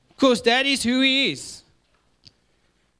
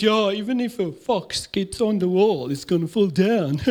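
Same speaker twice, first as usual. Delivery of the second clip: scoffing enemy; 2 semitones lower than usual. Retold or imitated. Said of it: "He said".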